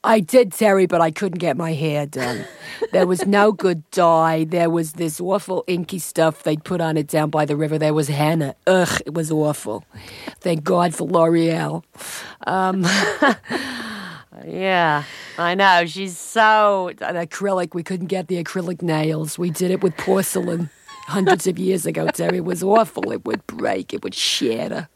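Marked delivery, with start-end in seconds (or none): 0.0-11.8 lightly voiced chatty Long Island housewife; a hint of a Long Island housewife. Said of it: "she's the housewife from Long Island". 15.9-24.9 a hint of Fern griping; Long Island housewife. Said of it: "she's the housewife from Long Island".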